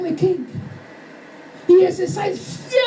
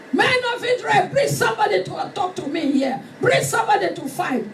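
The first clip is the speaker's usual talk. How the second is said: giant's challenge. Acted. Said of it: "roaring like a lion, shouting".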